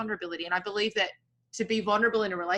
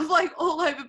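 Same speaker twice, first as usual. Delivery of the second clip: laughing protest; 9 semitones higher, 7 dB louder than usual. Real, not acted. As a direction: giggle through the words, louder. Podcast shame, laughing while protesting.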